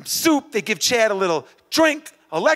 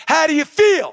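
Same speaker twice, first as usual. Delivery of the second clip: higher, forceful coach's call; rousing call-out; 4 semitones higher, 4 dB louder than usual. Acted. Coach drilling the runner on the only answer, rousing call. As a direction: fire the question at the crowd for a response. Calling for the crowd's drilled response.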